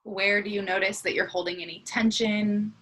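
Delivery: unhurried body-scan guidance with long pauses; guided meditation. Acted. Teacher leading a morning body scan, guided meditation. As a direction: guide them gently into the breath, leaving space between phrases.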